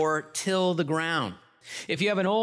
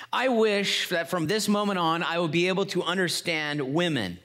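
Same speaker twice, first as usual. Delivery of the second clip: eager; 4 semitones higher than usual. Acted. Man makes heartfelt wish.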